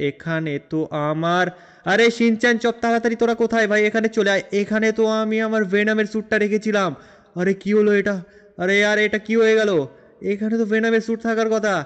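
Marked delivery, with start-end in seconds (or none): 1.9-11.7 loud, raised calls for his friends; calling out. Acted. Franklin calling Shinchan and Chop to the wardrobe, loud alarmed calls. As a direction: shout for them to come quickly. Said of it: "চেঁচাচ্ছ কেন?".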